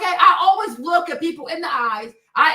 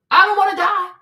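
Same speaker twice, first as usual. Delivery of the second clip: usual speaking voice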